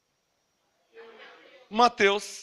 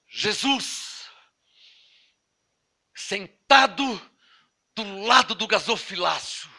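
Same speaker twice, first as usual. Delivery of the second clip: hushed, halting, as if inspired; mock inspiration; 3 semitones lower, 7 dB quieter, slower than usual. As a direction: breathe it out in pieces with long pauses, parodying inspiration. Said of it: "Inspiração". (inspiração fingida, pausada e baixinha)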